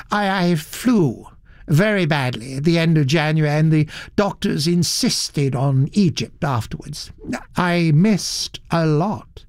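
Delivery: a touch of regret, slowing at the end; mildly rueful gentleman, lingering on what was missed; understated regret; real regret. Acted. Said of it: "His voice rang with a note of real regret".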